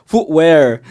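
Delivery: footwear said again with a firm F; footwear, F first. Shown as a demonstration. Repeating it for the coworker, footwear with an F. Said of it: "Say F".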